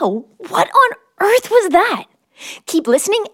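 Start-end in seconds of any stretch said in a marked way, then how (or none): 0.0-2.0 higher, drawn-out amazed gasp of a question; hammed-up startled exclamation; mock surprise. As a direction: play up the wonder for the kids. Reacting to mystery creature sound.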